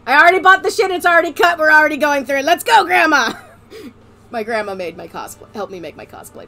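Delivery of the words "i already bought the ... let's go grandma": high, loud mock insistence; worked-up comic outburst; loud retold protest. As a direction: exclaim it as if rallying Grandma. Retold defiant reply to grandma.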